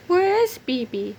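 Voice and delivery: high chick voice asking; worried chick. Acted. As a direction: call it anxiously. Toto asks for Bibi.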